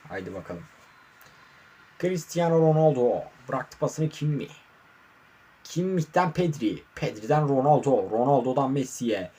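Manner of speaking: playful play-by-play commentary voice; sports commentator. Pretend. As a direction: call the match like a TV commentator. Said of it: "Ufak bir spikerlik yapayım dedim". (maç spikeri gibi anlatım)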